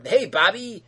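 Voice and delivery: oily, over-friendly boss voice; imitating creepy Bob; creepy manager. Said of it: "Bob's like".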